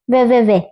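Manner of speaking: put-on sing-song childish taunt; mocking taunt. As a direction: tease with a nyah-nyah. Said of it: "అని వెక్కిరించి".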